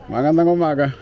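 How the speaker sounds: friendly Tagalog hello called out; cheerful greeting. Real, not acted. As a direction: greet the locals warmly from afar.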